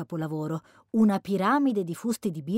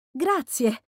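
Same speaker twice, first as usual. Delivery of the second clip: higher-pitched thanks with a smile; smiling thanks; 5 semitones higher, 4 dB louder than usual. A narrator's reading. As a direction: say it brightly through a smile. (ringraziamento sorridente)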